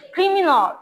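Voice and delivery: "ক্রিমিনাল" said as "krimi-nawl"; final "awl" sound. Shown as a demonstration. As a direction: model "ক্রিমিনাল" with a rounded, falling last syllable. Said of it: "লাস্টে অল এর মতো উচ্চারণ হবে".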